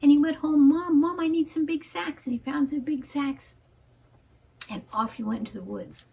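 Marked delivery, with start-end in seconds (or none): 0.0-2.3 eager, louder and higher; boy thrilled to run home to Mom; excited boy. Acted. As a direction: burst out with a child's excitement. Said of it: "Johnny Red Cloud was so excited".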